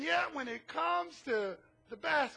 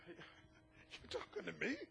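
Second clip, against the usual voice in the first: slow, hushed, mock-offended "you talking to me"; indignant brush-off; 7 semitones lower, 14 dB quieter, slower than usual. Congregant mocking a foreigner asking for water, slow and affronted. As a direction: act affronted, drawn out and low. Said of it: "Some of us would have said".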